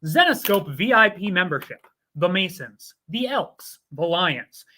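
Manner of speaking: upbeat promo announcer read. Acted. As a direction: sell the membership like a commercial. Reads a sponsor ad.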